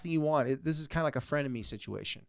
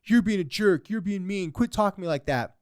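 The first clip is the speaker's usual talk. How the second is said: mock angry retort; 6 semitones higher, 4 dB louder than usual. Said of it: "if he were to tell this kid".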